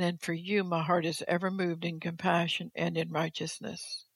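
measured, steady proclamation as God; formal pulpit reading; solemn declaimed reading. Acted. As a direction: read it out in long, weighty phrases. Reads God's words aloud to congregation.

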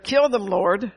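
preacher mimicking a vengeful believer; mock vengeful prayer. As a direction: ham up a spiteful prayer. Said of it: "Instead of".

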